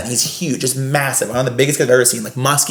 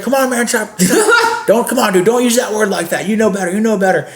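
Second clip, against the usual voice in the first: Gary; 9 semitones higher than usual. Retold or imitated. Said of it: "he has, like, these clown teeth in".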